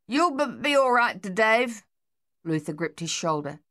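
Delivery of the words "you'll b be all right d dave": higher, halting stammer; stuttering soldier reassuring his brother; stuttering reassurance. A narrator's reading. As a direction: stammer out comfort under fire. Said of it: "Luther stutters reassurance".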